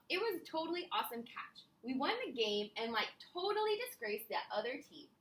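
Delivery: lightly voiced Valley Girl cheerleader; bubbly, airy teen cheerleader. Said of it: "read it like a Valley Girl".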